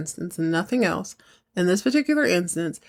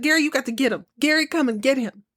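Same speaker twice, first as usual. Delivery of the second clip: high-pitched call to a character on screen; hollering at the TV; 7 semitones higher, faster than usual. Real, not acted. Viewer urging Gary from the couch, hollering higher. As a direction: yell at Gary through the screen. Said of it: "I'm hollering at the".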